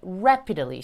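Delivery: "rapidly" begun with rounded lips; cute, round-lipped R on "rapidly". Shown as a demonstration. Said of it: "입 동그랗게 하시는 거".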